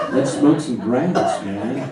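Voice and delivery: slow, lazy stoner drawl; a lightly done seventies stoner, slow. Retold or imitated. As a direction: stretch it out like a laid-back seventies hippie. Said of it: "everybody said grass".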